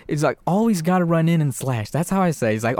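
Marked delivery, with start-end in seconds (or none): 0.5-1.9 higher-pitched eager gamer doll; gleeful killer doll. Retold or imitated. Killer doll gaming with little girl, gleeful. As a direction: play Chucky cheering on the slashing. Chucky voiced playing video game.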